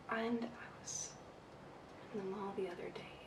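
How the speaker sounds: barely audible whisper, rushed; soft whisper. Shown as a demonstration. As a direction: whisper it like a nervous candidate. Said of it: "they start speaking too softly".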